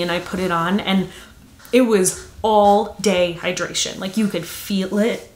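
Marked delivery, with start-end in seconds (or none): 4.0-5.3 slightly choked voice; words catching in the throat; choking. Real, not acted. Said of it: "I don't know why I'm choking".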